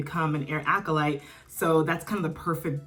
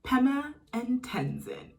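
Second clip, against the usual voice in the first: excited squeal; 9 semitones higher, 4 dB quieter, slower than usual. Real, not acted. Squealing over favorite couple.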